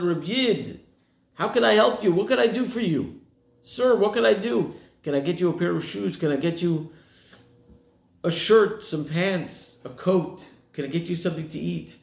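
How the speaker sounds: pressing kindly to help; a lightly voiced eager visitor; eager helper. Eager visitor offering help to survivor.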